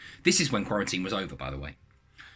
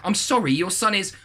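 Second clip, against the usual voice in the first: mum voice; 8 semitones higher, 4 dB louder than usual. Acted.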